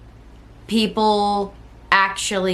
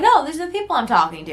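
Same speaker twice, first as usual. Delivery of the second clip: quick eager defence; 6 semitones higher, much faster than usual. Retold or imitated. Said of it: "And I'm like".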